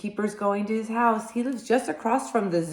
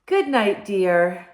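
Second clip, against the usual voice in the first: wife's goodnight; 2 semitones higher, 6 dB louder, slower than usual. Acted.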